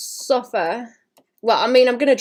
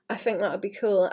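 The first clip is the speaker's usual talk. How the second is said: whispering; 5 dB quieter than usual. Real, not acted. Private aside while drawing.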